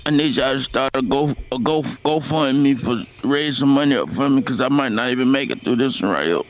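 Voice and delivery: hammed-up pained groan of a dying man; faking being near death. Prank caller faking hospital pain.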